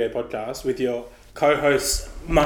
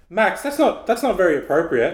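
imitating dad; 6 semitones higher than usual. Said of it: "the dad said".

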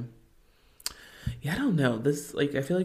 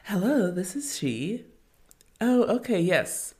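mom phone voice; 7 semitones higher than usual. Retold or imitated. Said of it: "I would feel like my mom".

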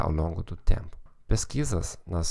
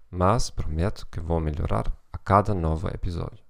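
German accent Portuguese. Real, not acted. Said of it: "com sotaque alemão".

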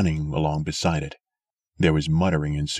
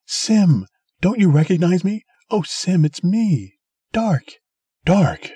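put-on old woman pleading; 9 semitones higher, 5 dB louder than usual. A narrator's reading. Old sister pleading recognition.

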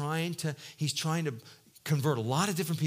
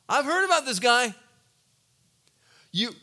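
worried objection; 8 semitones higher, 7 dB louder than usual. Retold or imitated. Ananias objecting to God.

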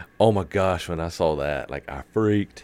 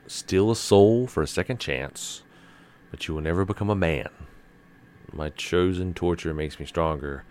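dramatic lyric reading. Pretend. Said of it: "Those are lyrics from Devil May Cry".

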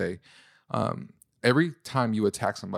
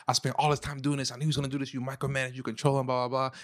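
mildly heated, higher-pitched mock rant; retold raised voice; 4 semitones higher, 3 dB quieter, faster than usual. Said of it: "I'm raising my voice".

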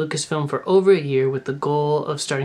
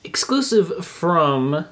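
announcer voice; 3 dB louder, slower than usual. Pretend. Parody news intro.

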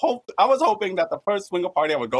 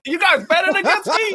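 indignant disbelief; 4 dB louder than usual. Retold or imitated. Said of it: "I was like".

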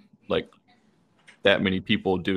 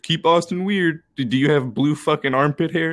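mock challenge; 7 semitones higher, 3 dB louder than usual. Texan mocking Austin's claim to be weird, mock challenge. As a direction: scoff in a higher voice.

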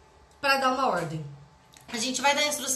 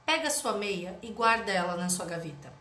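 gentle mother; 4 semitones lower than usual. Acted. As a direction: coax the kid close up, patiently. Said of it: "vou chegar pertinho deles e vou falar".

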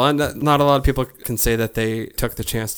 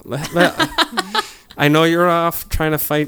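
laughing offer; 2 semitones higher than usual. Pretend. Offering help to Captain Marvel.

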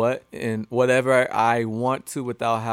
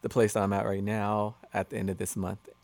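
low-key, unexcited answer; unenthusiastic; 4 semitones lower than usual. Real, not acted. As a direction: state it without any excitement, slightly subdued. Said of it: "you don't sound excited about it".

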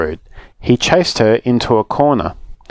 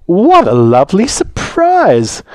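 much higher, louder delighted greeting; cheerful Grandma; 8 semitones higher, 4 dB louder than usual. Acted. Grandma arriving at her party, delighted and high. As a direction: greet them all with a beaming smile.

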